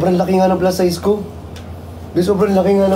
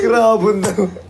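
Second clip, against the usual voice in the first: laughing; much slower than usual. Real, not acted. Laughing at nickname.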